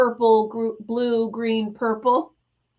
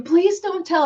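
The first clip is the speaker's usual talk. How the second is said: put-on pleading kids; 7 semitones higher than usual. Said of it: "They were like".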